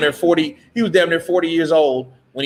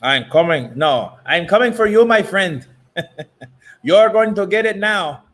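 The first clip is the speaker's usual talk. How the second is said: higher mock accented taunt; imitating Canelo; 4 semitones higher than usual. A boxer's taunt imitated in a mock accent. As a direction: taunt like a Mexican boxer, lightly. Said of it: "When he says".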